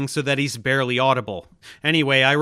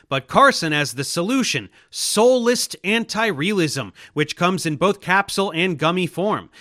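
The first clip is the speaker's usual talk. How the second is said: hard sell ad; 2 semitones higher than usual. Pretend. Mock infomercial for Carson's idea.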